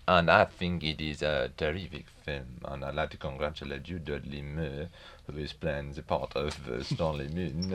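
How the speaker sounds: fading French accent impression; French accent slipping, speeding up; Maurice Chevalier French accent. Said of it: "unable to sustain the French accent".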